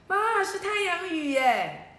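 high, slow, wide-eyed wonder; delighted gasp. Acted. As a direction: marvel at the sunshine rain. Child delighted at sun shower. (惊喜地慢慢喊出)

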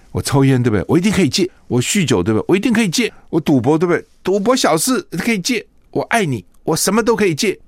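lightly hammed-up lover's vows; sweet-talking suitor. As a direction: play a boyfriend swearing he'll quit anything. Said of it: "很多男生骗女生".

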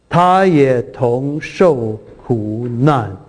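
slow, solemn reading of the verse; scripture reading. Acted. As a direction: lay each phrase down slowly and reverently. Reads scripture slowly. (缓慢庄重地朗读经文)

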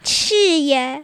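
drawn-out yes rising to a loud high cry; playful over-the-top yes; exaggerated agreement. Child exaggerates agreement with mother.

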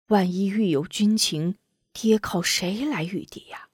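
lightly voiced father, coaxing. Father coaxes daughter.

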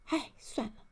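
easy, unbothered delivery; nonchalant. A narrator's reading. Elf brushes off the missing greeting to Mr. Arrogant, nonchalant. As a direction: shrug it off as if nothing happened. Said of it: "若无其事地说".

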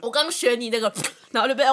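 strained voice after choking on spit; choking on saliva. Real, not acted. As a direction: talk right after a coughing fit. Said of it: "口水呛到了". (被口水呛到)

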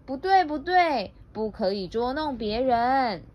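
lightly acted urgent correction; hurried objection. Rabbit hurriedly stopping the bear's teasing, urgent objection. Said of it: "又急忙地说".

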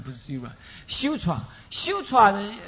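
sira corrected slowly to sutra; 纠正读音. Shown as a demonstration. (慢慢纠正成sutra)

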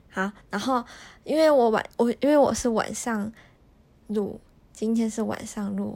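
talking around dental braces; slightly lisped speech through braces. Real, not acted. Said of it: "所以说讲话会有点怪怪的". (戴着牙套说话)

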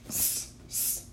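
"S-, s-," as a voiceless hiss; sounding out the letter. Shown as a demonstration. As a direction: breathe out "S-, s-," with no voice. Teacher sounds out first letter.

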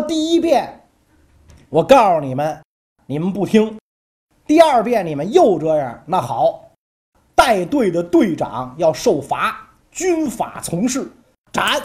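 Sun Wu loud and stern, ordering the beheading; angry command. Acted. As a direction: bark the sentence like an angry general. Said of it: "孙武就急了". (孙武对宫女们发怒下令，大声严厉)

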